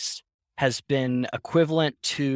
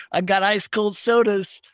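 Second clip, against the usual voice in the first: put-on higher, eager little-kid sales pitch; raised-pitch pitch to passing customers; kid hawking sodas; 7 semitones higher than usual. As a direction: call out your wares like a small child.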